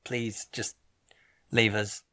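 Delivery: mildly stern, held-back request; politely but sternly ask, spaced out. Retold or imitated. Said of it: "The more sternness".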